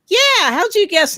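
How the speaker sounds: lightly mimicked Rhode Island guy; Peter Griffin. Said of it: "sounded just like Peter Griffin".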